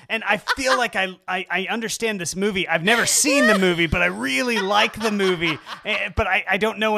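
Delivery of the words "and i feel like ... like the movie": mocking impression. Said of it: "This is the most ridiculous story I've ever heard".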